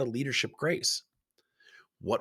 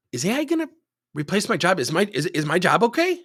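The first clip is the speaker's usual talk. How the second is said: higher, louder role-played worry; pressing employee question; 7 semitones higher, 5 dB louder than usual. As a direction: press the boss for an answer, pitched up.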